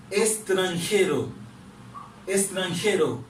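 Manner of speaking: careful model of S in estranjero. Shown as a demonstration. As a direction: sound a plain S in estranjero. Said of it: "n ap pwononse l kòm".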